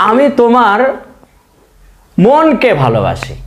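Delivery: drawn-out classroom demo; slow sentence read for students to copy; slow example. Shown as a demonstration. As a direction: read আমি তোমার মনকে ভালোবাসি slowly with stress on মনকে. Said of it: "র উচ্চারণ হলো".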